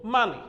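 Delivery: MONEY blended as "MUH-nee"; MONEY with a short uh, falling at the end; modelled pronunciation. Shown as a demonstration. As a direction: put the sounds together in MONEY.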